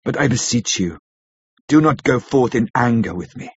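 gently beseeching, voice breaking a little; tender, understated appeal; full of pity. A narrator's reading. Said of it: "went on with a voice full of pity".

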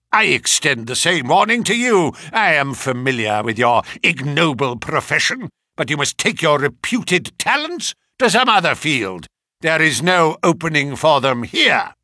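put-on loud, contemptuous old colonel; stern angry warning. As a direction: warn him off with scorn.

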